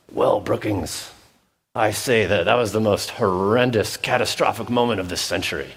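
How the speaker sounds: mock-solemn British golf commentator; quiet announcer. Golf announcer remarking on a pro's bad shot, quietly solemn. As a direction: lightly imitate a hushed, pious sports announcer. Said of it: "they would quietly say something like".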